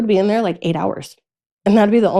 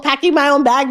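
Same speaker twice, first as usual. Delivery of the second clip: ordinary talk, nothing marked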